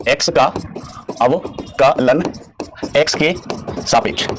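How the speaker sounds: very slow, separated by clear pauses; word by word. Shown as a demonstration. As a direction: spell the phrase out slowly, piece by piece. Teacher repeats phrase word by word.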